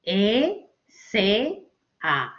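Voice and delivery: "E, C, A" in detached beats; separated syllables. Shown as a demonstration. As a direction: pause between each piece of "E, C, A".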